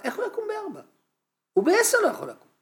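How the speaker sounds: high, laughing disbelief; chuckling rhetorical question. Real, not acted. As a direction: laugh at the absurd idea. Laughing at absurd advice.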